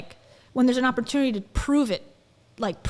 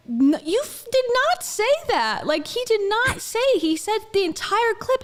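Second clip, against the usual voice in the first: high, indignant retort; pitched-up indignant comeback; mock outraged protest; 10 semitones higher, 4 dB louder than usual. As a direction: replay her outrage, pitched up. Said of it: "I literally was like".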